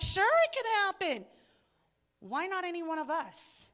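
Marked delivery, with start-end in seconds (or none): 0.0-1.3 easy confidence. Retold or imitated. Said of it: "I'm like".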